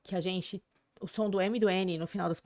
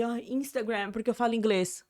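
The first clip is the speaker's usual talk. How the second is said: mock show-off. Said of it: "não fica nessa de".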